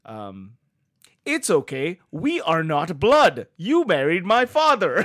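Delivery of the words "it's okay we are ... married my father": slow, earnest porn dialogue; porn actor line. Retold or imitated. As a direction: deliver it like a cheesy porn actor. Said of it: "they're just like".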